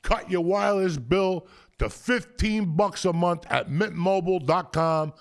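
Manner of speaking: upbeat sponsor read, slowing on key details. Acted. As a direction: sell the deal to listeners.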